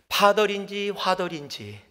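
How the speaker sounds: 파덜 with P then 화덜 with F, slowly; P versus F. Shown as a demonstration. Preacher demonstrating Korean P and F confusion. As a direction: contrast 파덜 and 화덜 slowly. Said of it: "정말 P하고 F하고".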